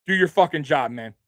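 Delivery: half-hearted captain's rebuke to the line; pretend chewing out. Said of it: "That's what I would be saying if I'm Josh Allen".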